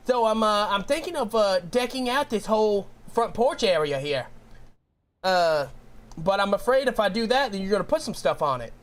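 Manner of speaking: put-on a light Boston, New York accent as the landlord. Landlord asks about the porch in a light Boston accent. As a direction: landlord in a mild northern East Coast accent. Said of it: "the accent I'm gonna do is gonna be a Boston, New York, northern accent".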